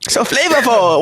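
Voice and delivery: Chinese grandpa voice. Retold or imitated. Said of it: "Why did you say it like a Chinese grandpa".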